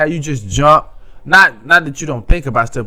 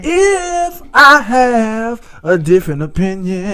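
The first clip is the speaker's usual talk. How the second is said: insistent repetition; 7 semitones higher than usual. Real, not acted. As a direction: hammer the same phrase home, slowing down. Insisting in a debate.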